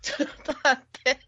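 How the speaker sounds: coughing while talking; spluttering between coughs; coughing fit. Real, not acted. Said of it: "咳込んでる".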